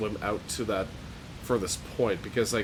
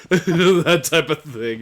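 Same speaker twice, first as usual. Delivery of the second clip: trailer voice; 6 semitones higher, 9 dB louder, much slower than usual. Pretend. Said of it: "trailer voice".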